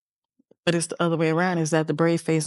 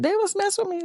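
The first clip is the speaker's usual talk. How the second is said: put-on whiny child voice; faster than usual. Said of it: "she was like".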